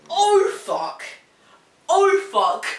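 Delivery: high, loud alarmed "oh fuck"; panicked swearing. Retold or imitated. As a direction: blurt it in sudden panic. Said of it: "I was like".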